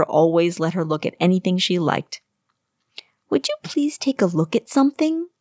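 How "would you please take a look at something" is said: put-on young girl voice. A narrator's reading. Young girl Aina asks.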